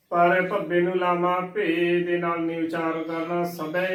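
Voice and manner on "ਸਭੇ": ਸਭੈ said as "sabhe"; ਸਭੈ ending in ay, not ai; wrong pronunciation. Shown as a demonstration. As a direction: close the last vowel of ਸਭੈ to e. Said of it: "ਨਹੀਂ ਬੋਲਣਾ ਹੈ".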